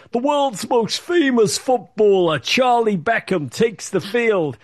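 high, slow, pompous mock commentary; mock TV commentator. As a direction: announce it like a clueless baseball commentator. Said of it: "The commentator said".

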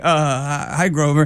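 a hint of a shy, starstruck child, low; lightly acted tongue-tied kid; awestruck kid. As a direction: stammer a small, bashful hello. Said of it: "I actually became a kid".

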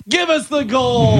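high, slow shouted cowboy line; Southern cowboy shout. Retold or imitated. Co-host imitating Uncle Leo actor in Western. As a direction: bark it like a Western villain. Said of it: "He's like".

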